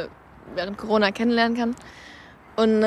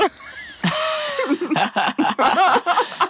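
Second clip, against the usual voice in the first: laughing; 6 semitones higher than usual. Real, not acted. Laughing at own story.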